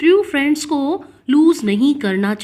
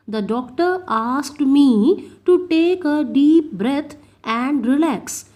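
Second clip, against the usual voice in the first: very slow, clear dictation pace; spoken like a teacher dictating; slow example reading; much slower than usual. Shown as a demonstration. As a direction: read each word out slowly for the class.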